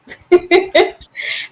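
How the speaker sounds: bright high burst of laughter. Real, not acted. Laughing at baby talk.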